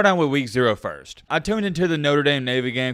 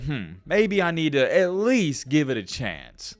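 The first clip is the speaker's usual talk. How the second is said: calm and thoughtful; slower than usual. Retold or imitated. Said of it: "you know what I said?".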